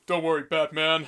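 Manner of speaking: slow, mock-manly reassurance; Commissioner Gordon. Fan mocking game's Gordon reassuring Batman, slow manly voice. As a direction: exaggerate the tough, manly cop. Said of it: "Why are you suddenly so manly?".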